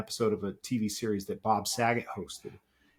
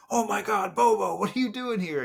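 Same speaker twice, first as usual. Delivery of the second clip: high, excited mock squeal; imitating starstruck fans; 11 semitones higher, 3 dB louder than usual. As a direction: play a fan freaking out at the bar. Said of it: "this guy's like".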